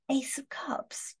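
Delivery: hushed, breathy whisper of the card name. Real, not acted. Reader naming a drawn tarot card in a slow whisper.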